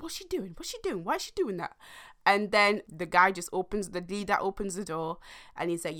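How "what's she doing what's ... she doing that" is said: mock confused men. Men mocking her knock.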